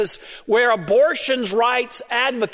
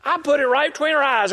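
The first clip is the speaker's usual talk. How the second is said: excited retelling; 5 semitones higher, faster than usual. Retold or imitated. Excited story of shooting.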